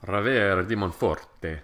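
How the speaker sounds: rolled Italian accent. Shown as a demonstration. Friend hams up the wine name in an Italian accent. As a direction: savour Ravera di Monforte like a native speaker. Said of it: "One thing I like about Italian".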